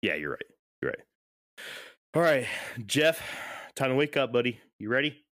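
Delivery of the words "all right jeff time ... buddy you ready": higher-pitched call to rouse a dozing buddy; calling to wake. Real, not acted. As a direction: wake him up, playfully raised voice. Rousing a dozing co-host.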